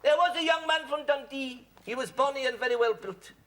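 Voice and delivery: comic limerick recital. Acted. Recites limerick in mock Scots.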